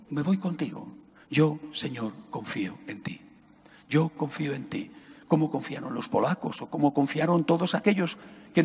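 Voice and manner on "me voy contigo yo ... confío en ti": low and soft, trailing off; a quiet act of trust; soft trusting prayer. Acted. Voicing a child-like prayer.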